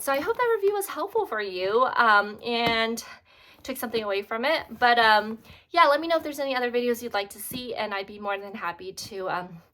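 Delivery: slightly breathless after carrying a heavy bag; out of breath. Real, not acted. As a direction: talk while catching your breath. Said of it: "sound like I'm out of breath".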